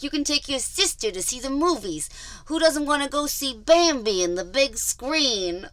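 friendly threat. Retold or imitated. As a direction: bribe her with a fake smile. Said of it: "okay, I gotta do the voice right".

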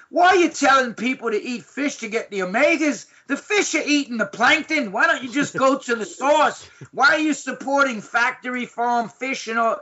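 lightly voiced Aussie questioning; imitating challenging friend. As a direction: play the blunt Aussie confronting. Ian grilling Doctor Oz.

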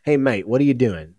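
half-hearted mock English accent; badly faked English accent, as if to a mate; terrible English accent. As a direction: put on a bad English accent. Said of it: "that's my terrible English accent".

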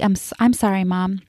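retold meek, polite apology; small, courteous sorry. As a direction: imitate a child apologizing softly to Mom. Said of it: "he says very politely".

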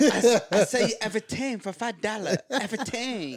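put-on Southeast Asian accent; mock Asian accent. Co-host mimicking a seller to tease host, mock Asian accent. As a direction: imitate a street seller in a broken-English Asian accent. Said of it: "watch that fucking accent".

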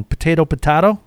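potato first as po-TAY-to, potato then as po-TAH-to; two pronunciations. Shown as a demonstration. Host unsure of pronunciation asks listeners, potato as TAY, then potato as TAH. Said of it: "Tell me if I'm wrong".

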